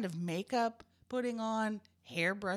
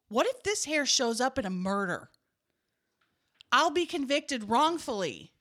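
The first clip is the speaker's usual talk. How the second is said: mock worry; 5 semitones higher, 5 dB louder than usual. Acting out own worried thought.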